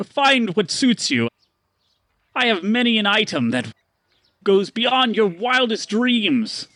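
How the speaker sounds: high, booming carnival barker; a grand ringmaster welcoming the crowd; showman merchant. Acted. Stanley greeting newcomers in a barker's voice.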